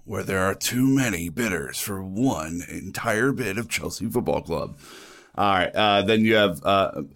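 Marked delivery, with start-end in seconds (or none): 0.0-4.8 epic trailer narrator, lightly done; a hint of movie trailer announcer. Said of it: "your movie trailer voice".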